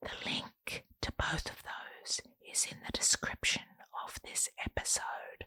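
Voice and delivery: very soft, barely voiced whisper. Pointing listeners to links in the description, whispering. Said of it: "Why are you whispering?".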